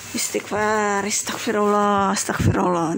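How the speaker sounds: calm, even murmured prayer for forgiveness; calming istighfar. Shown as a demonstration. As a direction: recite it to cool your temper. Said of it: "Nah, seperti itu".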